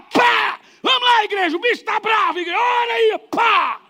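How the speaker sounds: high, loud rallying shout to the church. Retold or imitated. Pastor shouting to the congregation during the fight, high loud rally cry. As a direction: whip the crowd up at full volume. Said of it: "E ele gritava".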